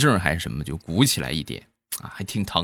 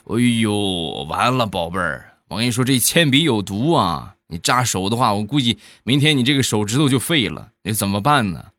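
teasing mock dismay; playful doom-laden warning with swooping emphasis; deliberately exaggerated alarm; 3 semitones higher than usual. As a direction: overdo the worry to fool a child. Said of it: "我当时我就故意就夸张啊".

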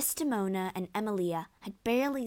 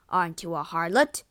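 loud, accusing question; angry accusation; 7 dB louder than usual. A narrator's reading. Othello accuses his wife, loud and angry.

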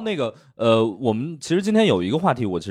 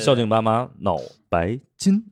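孝敬爸妈 then a pause before 脑白金, slow; slow ad read with a pause before 脑白金; ad slogan pause. Retold or imitated. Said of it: "他必须还有得有一个停顿".

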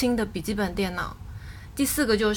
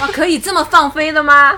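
surprised; 6 semitones higher, 10 dB louder than usual. Real, not acted. Surprised at wild answer.

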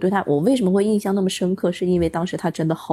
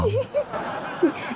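high burst of laughter; 5 dB quieter than usual. Real, not acted. Laughs at accent joke.

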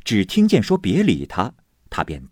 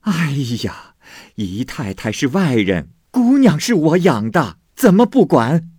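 much louder, higher, outraged scolding; indignant scolding; 7 semitones higher, 6 dB louder than usual. A narrator's reading. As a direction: spit it out in indignation. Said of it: "薛姨妈啐道". (愤愤地斥骂，声音很高很响)

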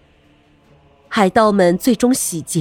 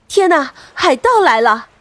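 louder alarmed shout; alarmed cry; 3 semitones higher, 4 dB louder than usual. Acted. Sailors cry out, pirates coming.

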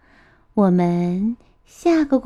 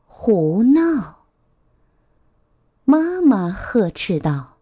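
put-on measured, expressive storytelling to a child; picture-book narration; 4 semitones higher, slower than usual. A narrator's reading. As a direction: read a picture book aloud to little ones.

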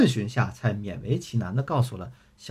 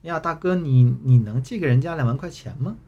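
put-on sugary, pleading girlish tone; coquettish baby voice; 2 semitones higher, 3 dB louder than usual. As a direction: put on a cutesy coy voice. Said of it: "嗲声嗲气地说".

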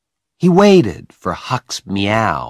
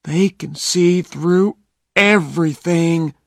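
unhappily; 9 semitones higher than usual. A narrator's reading. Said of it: "said Huck unhappily".

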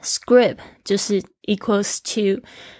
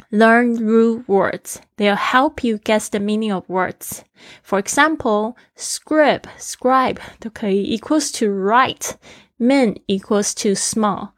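read aloud slowly; slower than usual. Shown as a demonstration. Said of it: "repeats phrase for learners".

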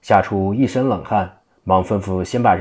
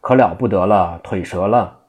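mock yell. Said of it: "和尚可着嗓子喊".

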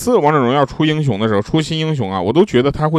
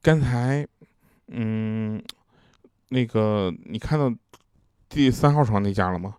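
imitating a hushed, much softer aside; softer gossip voice passed on in confidence; 5 dB quieter, slower than usual. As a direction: lean in and murmur it secretly, mock-hushed. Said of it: "有一个病友小声地跟我说".

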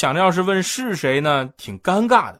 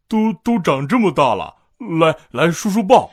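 a lightly voiced leering uncle, a touch louder; creepy uncle; 5 dB louder than usual. Dazhuang coaxing the girl, mock creepy uncle. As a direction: Dazhuang stammers eagerly at the pretty girl.

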